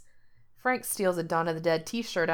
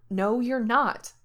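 firm; 5 semitones higher, 4 dB louder, slower than usual. Acted. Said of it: "Gerard says firmly".

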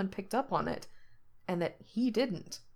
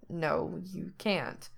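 skeptical; 5 dB quieter, much slower than usual. Acted. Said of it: "Frank says skeptically".

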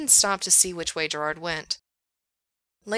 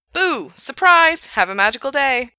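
much higher, loud bubbly greeting; cheerful surprise; 9 semitones higher, 9 dB louder than usual. Acted. Gerard greeting guests, bursting with cheer. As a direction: burst out like a park mascot.

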